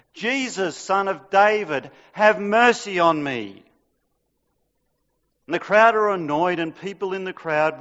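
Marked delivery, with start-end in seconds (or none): 0.1-3.6 louder, insistent cry repeating the plea; repeated begging shout. Acted. Beggar pleading again to Jesus, louder. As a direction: keep crying out like a broken record. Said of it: "sound like a broken record".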